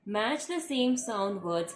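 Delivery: reading the next task to pupils, very slowly. Shown as a demonstration. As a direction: read the title out very slowly. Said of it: "teacher reads the question slowly".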